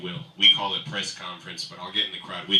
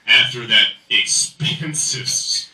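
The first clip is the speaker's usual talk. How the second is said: usual speaking voice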